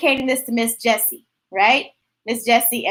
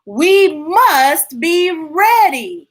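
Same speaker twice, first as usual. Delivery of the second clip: serious; 3 semitones higher, 5 dB louder, much slower than usual. Acted. Gerald serious.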